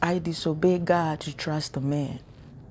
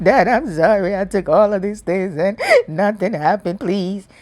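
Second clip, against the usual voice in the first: prodigal son pleading; 2 semitones higher, 5 dB louder than usual. Retold or imitated. Prodigal son apologizing to dad.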